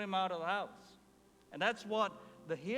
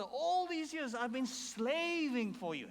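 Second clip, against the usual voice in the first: complaining son; 6 semitones higher than usual. Retold or imitated. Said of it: "he complains to his father".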